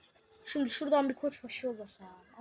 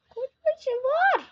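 drawn-out yell; 14 semitones higher, 9 dB louder, much slower than usual. Real, not acted. Urging the battle ram on.

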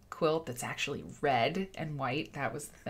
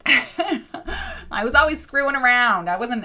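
higher, louder, slow, laughing through the line; laughing repeat; 8 semitones higher, 10 dB louder, slower than usual. Real, not acted.

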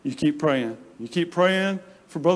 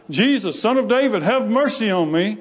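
higher-pitched imitated plea; retold cry for help, pitched up; 5 semitones higher than usual. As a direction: call out like a beggar pleading for mercy. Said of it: "he cries out".

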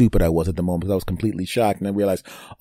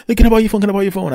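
higher, louder mock woman's voice; imitating her ask; 9 semitones higher, 5 dB louder, much faster than usual. Imagining her asking for the phone, higher and louder. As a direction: squeak out her request. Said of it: "she's like".

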